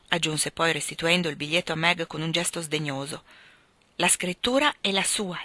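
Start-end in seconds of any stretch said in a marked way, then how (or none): 4.0-5.4 mildly tremulous, understated remark; slightly unsteady, troubled voice; trembling voice. A narrator's reading. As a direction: say it with a touch of a tremble. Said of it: "disse Meg con voce tremante".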